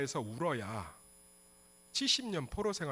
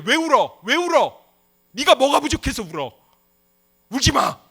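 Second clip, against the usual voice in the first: loud, high-pitched acted rebuke; angry scolding; 10 semitones higher, 16 dB louder than usual. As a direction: yell at someone who is crying. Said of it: "이렇게 얘기 안 하셨어요". (우는 사람을 고함치며 꾸짖듯)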